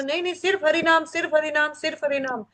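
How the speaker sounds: scripture insists firmly on the holy name only; insistent emphasis. Retold or imitated. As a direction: hammer home सिर्फ हरि नाम. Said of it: "जोर देकर".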